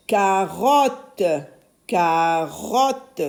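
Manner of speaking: carotte said carefully, the O held; sounded-out word. Shown as a demonstration. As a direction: draw out "Carotte" so the O stands out. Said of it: "j'entends le son O dans carotte". (carotte articulé, le O allongé)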